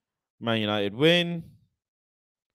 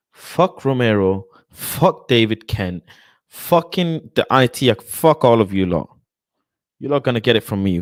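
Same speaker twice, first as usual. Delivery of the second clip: angry cursing; 8 dB louder than usual. Real, not acted. Fan cursing transfer tipsters one by one, angry cursing. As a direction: curse each one out loudly, drawing it out.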